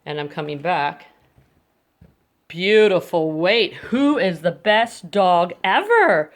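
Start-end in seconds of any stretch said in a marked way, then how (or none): 2.5-6.3 slow, drawn-out praise to the dog. Real, not acted. Trainer praising her waiting dog, slow and drawn out. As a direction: stretch the praise out to reward him.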